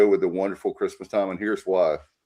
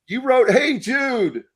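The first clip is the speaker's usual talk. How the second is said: emphatic; slower than usual. Real, not acted. Emphatic high exclamation.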